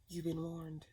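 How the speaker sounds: slow, laughing repeat of the warning. Real, not acted. Reader jokingly repeats her warning to Cancer, laughing. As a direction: chuckle it out, teasing.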